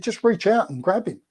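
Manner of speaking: lightly imitated coach, urging the extras on; rousing pep talk. Stunt coordinator urging the extras to grab Bond, mildly rousing. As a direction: pump them up to grab the hero, half-hearted. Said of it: "really geeing us all up".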